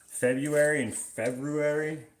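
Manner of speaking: slow "February", first as "Feb-yoo-ary", then "Feb-roo-ary"; second "February" with the r fully sounded; two pronunciations contrasted. Shown as a demonstration. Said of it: "When people say February, that's always weird to hear".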